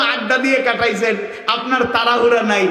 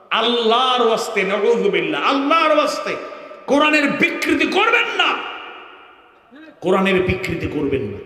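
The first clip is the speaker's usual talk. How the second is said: raised, pleading cry; impassioned plea. Real, not acted. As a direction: beg the listeners from the heart. Pleading against distorting Quran. (উচ্চস্বরে আকুল মিনতি)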